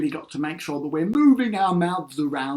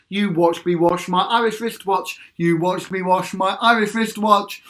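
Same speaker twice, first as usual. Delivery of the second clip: crisp call-and-repeat tongue twister; over-articulate for the group to copy; tongue twister drill. Shown as a demonstration. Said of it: "Irish wristwatch time".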